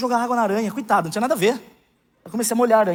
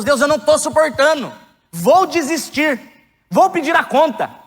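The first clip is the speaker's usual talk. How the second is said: higher, slow, imitating a despairing plea; desperate prayer; 9 semitones higher, 5 dB louder, slower than usual. Pastor retells his tearful prayer to God, imitating despair. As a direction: re-enact begging God to let you quit. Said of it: "comecei a chorar".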